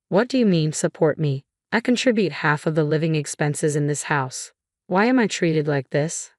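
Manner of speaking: ordinary delivery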